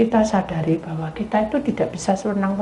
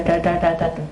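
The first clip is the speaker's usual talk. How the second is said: ordinary delivery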